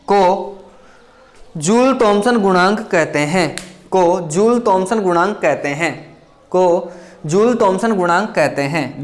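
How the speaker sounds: each word spaced out slowly for notes; slow dictation. Shown as a demonstration. Teacher dictating a definition to students, slow and even.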